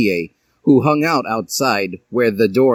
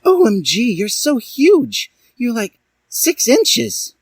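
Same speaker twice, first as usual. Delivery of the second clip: mock shout; 14 semitones higher than usual. A narrator's reading. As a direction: squeal with a laugh. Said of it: "she shouted, gasping for breath".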